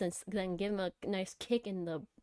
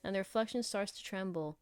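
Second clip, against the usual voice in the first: measured first-person story reading; story narration. Acted. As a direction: read the story out evenly. Reads the game's story aloud.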